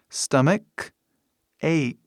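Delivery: stomach ache split into two careful words; pronunciation of stomach ache. Shown as a demonstration. Teacher shows odd spelling, stomach ache sounded out carefully. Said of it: "Daí a pronúncia".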